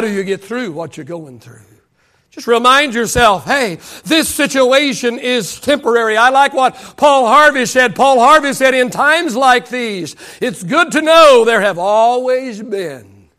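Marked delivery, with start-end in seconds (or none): 2.3-13.3 impassioned sermon delivery; rolling pulpit cadence; preaching. Real, not acted. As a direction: preach it with driving force, stretching key words. Preaches at full force.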